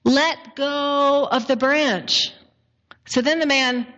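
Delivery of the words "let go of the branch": very slow, deliberate divine instruction; lightly voiced God, drawn-out and measured. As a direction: spell it out slowly as God. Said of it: "And the voice replies".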